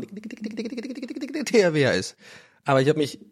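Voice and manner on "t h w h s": slow spluttered helicopter sound; helicopter noise. Retold or imitated. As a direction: chop the letters like rotor blades. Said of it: "Ich wollte so ein, wie ein Hubschrauber machen".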